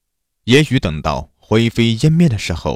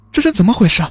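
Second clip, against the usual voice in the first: high-pitched, stammering alarm; frantic victim, high and faltering; agitated; 4 dB louder, faster than usual. A narrator's reading. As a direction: cry out in distress, voice far up and louder. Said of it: "她激动地说".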